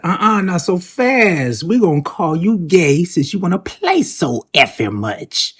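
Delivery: sassy comment read aloud; reading comment with sass. Retold or imitated. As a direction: read it like a clapback. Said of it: "The first person said".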